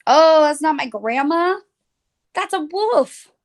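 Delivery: put-on storybook girl startled; alarmed realization. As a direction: gasp it out as the truth dawns. Little Red realizes, voiced.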